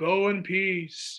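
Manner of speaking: dull, flat, level, uninflected monotone drone. Reading a Bible story, imagining the priest answering the five men, monotone.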